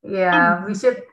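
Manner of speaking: normal talking voice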